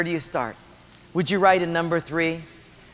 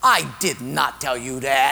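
mock voice of God; 3 semitones lower than usual. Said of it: "Second Portuguese guy says".

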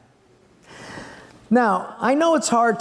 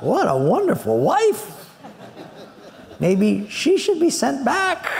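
laughing sarcasm; 5 semitones higher than usual. Real, not acted.

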